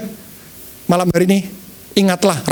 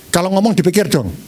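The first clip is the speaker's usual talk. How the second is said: sharp reprimand, no softening; scolding. Shown as a demonstration. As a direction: tell someone off for careless talk. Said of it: "Beda dengan ini".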